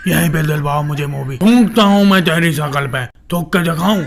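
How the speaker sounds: lightly voiced defiant film hero; touch of scornful movie-star delivery; contemptuous actor. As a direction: refuse with mild mock disgust.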